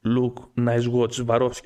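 low-pitched watch hawker; a hint of a sneaky salesman; sly street peddler. Peddler offering a watch to a stranger, low and sly. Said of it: "πήγα να το παίξω τώρα sneak".

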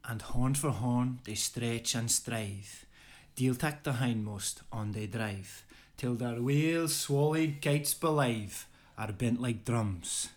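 an amateur Scottish brogue, declaimed with gusto; a modest Scottish accent, performing the poem for a friend. Acted. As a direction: recite Burns in a lightly put-on Scottish accent. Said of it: "excuse the poor Scottish voice, but I think it needs to be said in a Scottish voice".

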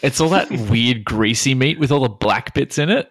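talking through laughter; giggling while describing it; laughing. Real, not acted. Laughing at the greasy joke.

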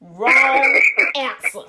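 slow, drawn-out "Wrong answer" through a laugh; laughing verdict. Acted. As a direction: pronounce it like a game-show buzzer, laughing. Mocking his bad line.

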